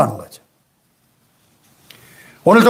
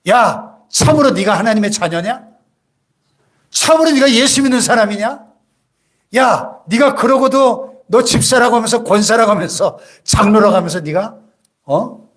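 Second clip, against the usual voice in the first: a mildly voiced accusing devil, a bit higher; hint of a sneering devil; 4 semitones higher than usual. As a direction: taunt the believer as the accuser. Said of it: "이렇게 참소합니다".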